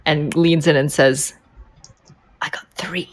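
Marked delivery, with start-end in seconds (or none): 2.4-3.1 much softer, leaned-in murmur; quiet confidential boast. Acted. Nadia leans in to tell her comrade her kills, softly. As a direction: share the kill count close to his ear.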